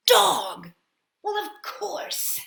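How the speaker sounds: high, loud realization; surprised cry. Acted. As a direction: burst out in surprise. Mole realizes.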